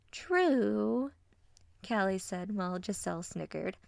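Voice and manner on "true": bubbly. Acted. Callie's bubbly voice.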